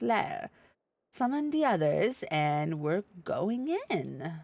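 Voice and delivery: lightly voiced formal knight reading; noble knight. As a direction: read it like a dignified lord. Voicing NPC dialogue.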